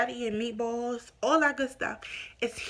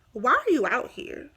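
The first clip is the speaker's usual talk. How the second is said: irritated questioning; 2 semitones higher, 5 dB louder than usual. Retold or imitated. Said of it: "same tone".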